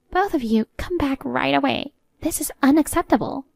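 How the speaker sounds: lightly acted indignant order; indignant mother-in-law. Mother-in-law orders runaway couple back, mildly indignant.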